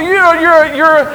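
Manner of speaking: slow, loud lament with broken starts; anguished crying out. Acted. Father telling his only child of his grief, acted anguished cry. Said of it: "he cries out".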